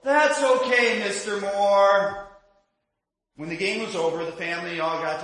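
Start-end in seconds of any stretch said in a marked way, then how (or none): 0.0-2.2 consoling call. Retold or imitated. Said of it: "you hear the voice go".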